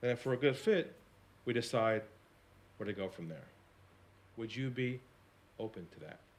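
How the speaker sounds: low, quiet voice. Retelling a reply on a phone call: retelling in a lowered voice. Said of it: "I lowered my voice".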